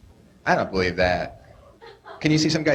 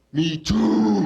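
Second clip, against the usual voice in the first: mock kid yell; 7 semitones higher than usual. Comedian mimics kid to mother.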